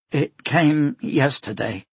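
slow, sorry clerk; apologetic. Acted. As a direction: say it like you're to blame. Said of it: "the clerk said apologetically".

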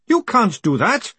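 high-pitched, drawn-out protest; helpless objection in a high voice; weak protest. A narrator's reading. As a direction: protest slowly, pitched well up. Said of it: "Greenham protested weakly".

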